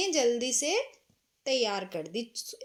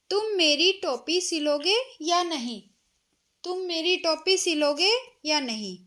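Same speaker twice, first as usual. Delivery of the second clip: a touch of an angry mouse, raised voice; angry shout; 4 semitones higher, 4 dB louder than usual. Acted. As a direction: demand the cap, a bit higher and louder. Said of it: "वह जोर से चिल्लाया". (गुस्से में चिल्लाते हुए चूहा)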